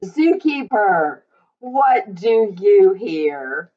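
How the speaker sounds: lively sing-song picture book reading; reading to children. Acted. Teacher reading a rhyming animal book to children, sing-song. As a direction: read it out to a room of little kids.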